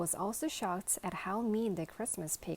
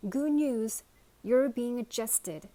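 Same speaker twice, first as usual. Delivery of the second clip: higher, louder and slow, cheery; cheerful news; 5 semitones higher, 8 dB louder, slower than usual. Acted. Old woman brings lunchbox good news, cheerful. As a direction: announce it happily. Cheerful announcement through door.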